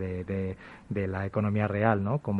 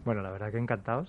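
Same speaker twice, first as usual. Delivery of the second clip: muffled through a face mask; faster than usual. Real, not acted. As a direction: talk behind a face mask. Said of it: "estáis hablando con la mascarilla".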